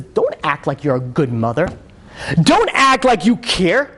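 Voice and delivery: high-pitched angry tirade, acted out; retold screaming. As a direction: imitate a son raging at his mother. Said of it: "he starts screaming at her in public".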